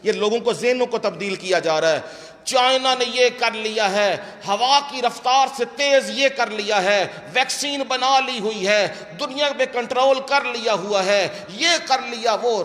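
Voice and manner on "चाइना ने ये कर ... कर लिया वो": raised, insistent run of claims; declaimed preacher's list. Acted. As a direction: pile up each claim on a high note. Preacher lists claimed worldly achievements.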